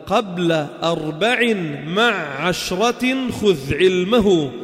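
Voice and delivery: slow, measured chanting of a verse; verse recitation. Shown as a demonstration. Teacher quoting a grammar poem to students, slow chanted recitation. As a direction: draw out each syllable in metre.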